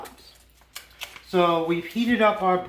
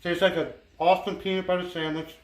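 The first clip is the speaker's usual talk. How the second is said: mouth full. Real, not acted. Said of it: "Excuse me for talking with my mouth full".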